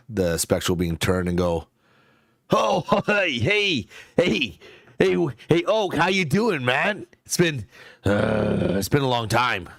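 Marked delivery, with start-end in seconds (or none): 2.5-9.7 put-on high, laughing hello to an old friend; light up at seeing an old pal; delighted greeting. Spirit greets old friend Wild Oak.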